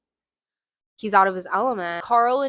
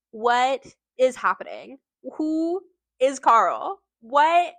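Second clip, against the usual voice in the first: baffled; 3 semitones higher, 4 dB louder, slower than usual. Real, not acted. Reader baffled by the meta bonus chapter, rising disbelief. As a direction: sputter in disbelief at the twist. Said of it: "I got really confused".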